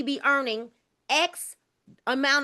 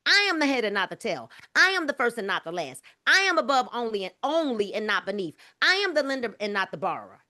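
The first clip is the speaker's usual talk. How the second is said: recited affirmations; 2 semitones lower, faster than usual. Shown as a demonstration. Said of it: "I make Paige say that every single day".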